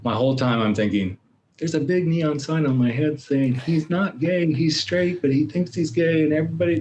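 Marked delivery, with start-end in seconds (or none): 1.6-6.8 high-pitched mock announcement; imagined accusing sign. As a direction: voice your own paranoid thoughts, pitched way up. Voices his mocking inner alarm.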